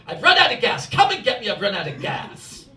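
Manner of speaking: imitating mother's English accent; lightly put-on English accent, demanding. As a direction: complain in a mock English accent. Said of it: "she does it all in an English accent".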